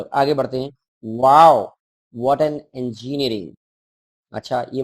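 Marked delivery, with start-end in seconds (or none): 1.2-1.7 loud amazed wow; teacher reading out an amazed wow. Acted. 2.2-3.6 slow wonder. Acted. Reading the exclamation slowly.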